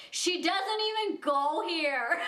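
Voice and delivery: put-on slow, laughing Mean Girls quote; quoting the movie line while giggling. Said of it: "I felt in that moment Mean Girls".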